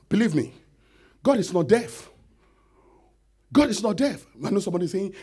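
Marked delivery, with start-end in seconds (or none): 1.2-2.1 rising, louder insistence that God hears; building proclamation. Acted. Preacher insisting to the church, louder each time. 3.5-4.3 higher, louder insistence on God; louder proclamation. Acted. Preacher declaring to the congregation, louder.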